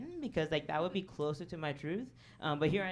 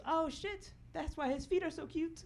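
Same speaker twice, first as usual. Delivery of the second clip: sudden realization; 11 semitones higher than usual. Retold or imitated. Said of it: "he looks at me and goes".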